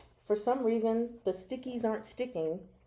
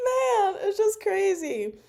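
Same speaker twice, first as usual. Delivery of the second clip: 1 excited; 12 semitones higher, 7 dB louder, slower than usual. Real, not acted. Gushing over the scene.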